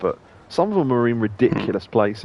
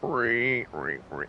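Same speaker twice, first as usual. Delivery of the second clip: cicada impression; 7 dB quieter, much slower than usual. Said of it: "That's my cicada impression".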